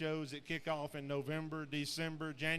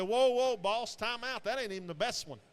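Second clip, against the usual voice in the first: retold, much higher and louder burst of protest; excited protest; 6 semitones higher, 6 dB louder than usual. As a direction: play the friend cutting in, stopping you mid-praise.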